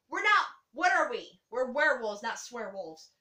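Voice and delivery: lightly voiced pack leader correcting his pack; werewolf master. Retelling the movie scene to her co-host, mock stern werewolf boss. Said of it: "the werewolf master comes around and goes".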